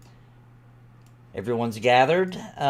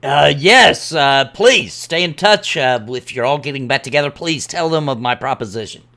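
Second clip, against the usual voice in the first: lightly voiced quest-giver, louder at the start; eager quest-giver; 7 dB louder than usual. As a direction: plead politely and loudly, then settle. Game master answers as the departing character's contact.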